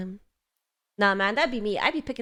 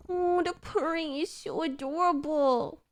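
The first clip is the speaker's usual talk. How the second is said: higher, drawn-out coo; adoring coo; 6 semitones higher, slower than usual. Real, not acted. Streamer hearing the cat purr, slow adoring coo. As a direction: melt over the purring.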